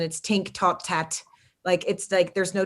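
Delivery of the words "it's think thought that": "tink, tot, tat" with hard T for TH; Irish TH as T. Shown as a demonstration. Cohost showing Irish speech, "tink, tot, tat" with T for TH. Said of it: "there's no T H in Ireland".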